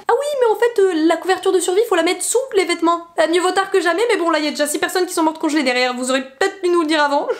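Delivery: high, offhand mock guard voice; imitating a security guard. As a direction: play the clueless guard, mocking. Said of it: "qui sont venus nous dire". (voix moqueuse d'agent de sécurité, aiguë)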